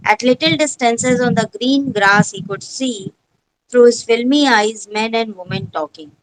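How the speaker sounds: very slow, every word set apart; teacher reads the story aloud to pupils, very slow; slow textbook reading. Shown as a demonstration. Teacher reads English text.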